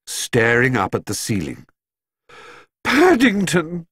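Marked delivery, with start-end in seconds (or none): 2.8-3.9 calling out. A narrator's reading. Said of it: "called Missus Brown".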